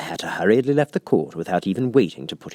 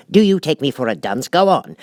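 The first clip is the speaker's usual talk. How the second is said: sharp king; 6 semitones higher, 6 dB louder than usual. A narrator's reading. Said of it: "said the King sharply".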